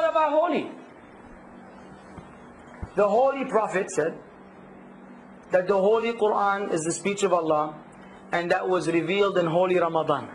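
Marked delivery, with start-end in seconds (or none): 3.0-10.3 low, measured recital of a pious stock phrase; recited stock phrase. Retold or imitated. Teacher quotes what you hear all the time, low measured recital. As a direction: intone it lower and evenly. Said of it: "Isn't that what you hear all the time".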